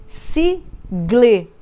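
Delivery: sigle blended slowly, trying the sound. Shown as a demonstration. Teacher testing whether sigle makes a word, trying it out. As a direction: try out sigle as a test word. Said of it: "não forma palavra".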